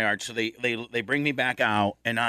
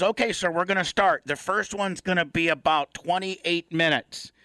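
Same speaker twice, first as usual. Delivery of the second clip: lightly voiced technician, pitched up; higher-pitched official quote; MRI technician; 5 semitones higher than usual. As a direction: imitate a staffer announcing the start. Acts out technician announcing the scan.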